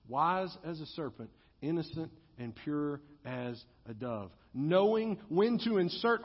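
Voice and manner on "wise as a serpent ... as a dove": soft, lower recitation of the verse; hushed solemn quoting; reverent hush. Acted. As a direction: let the scripture settle gently. Scripture phrase, hushed.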